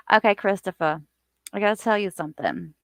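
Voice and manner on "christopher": put-on northern Sopranos accent on Christopher. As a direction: drop the final R, Sopranos style. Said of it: "I have to say it like that".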